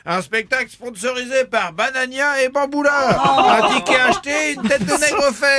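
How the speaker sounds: nasal nineties announcer voice; hammy nasal promo announcer. Pretend. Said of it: "la voix nasillarde pour les annonces". (voix nasillarde d'annonceur radio)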